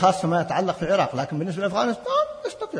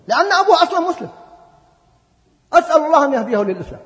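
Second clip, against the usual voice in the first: much higher and louder, pleading; fervent plea; 9 semitones higher, 7 dB louder, faster than usual. Real, not acted. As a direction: press the prayer with rising fervour. Fervent prayer for Obama. (دعاء بحماس وصوت مرتفع)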